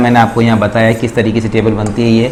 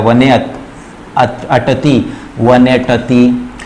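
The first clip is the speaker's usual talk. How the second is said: वने अटति drawn out slowly, every syllable spelled apart; teacher slows down वने अटति for the class; slow demo; slower than usual. Shown as a demonstration. Sanskrit teacher to students, slow clear recitation. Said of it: "शीघ्रता से बोला जाता है".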